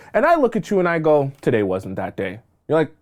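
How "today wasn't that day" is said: low, soft, offhand brush-off; cold indifference. Acted. Coworker dismissing the new hire's question, low cold indifference. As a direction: shrug it off like it never mattered. Coworker coldly drops the routine.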